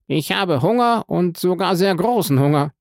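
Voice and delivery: high-pitched, insistent declaration; said aloud. A narrator's reading. Prisoner telling the guard he is starving, high and insistent. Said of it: "fügte er laut hinzu".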